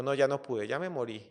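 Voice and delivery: soft, mildly despairing; defeated lion. Acted. Trapped lion gives up trying to escape, softly despairing. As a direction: give up quietly, trailing away. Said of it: "el león empezó a llorar".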